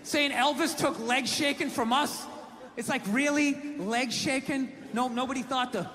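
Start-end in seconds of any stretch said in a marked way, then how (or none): 0.0-2.3 worked-up argument. Retold or imitated. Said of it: "And I'm like".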